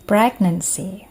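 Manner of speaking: careful, emphatic single-word model for repeating; pronunciation model. Shown as a demonstration. Teacher models a word for students to repeat, carefully articulated. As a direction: say it clearly for learners to copy. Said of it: "Silahkan diulangi".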